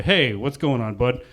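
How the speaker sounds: put-on easygoing hello to a kid; relaxed, chummy adult greeting; acted friendliness toward a child; friendly greeting. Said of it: "now I'm friendly".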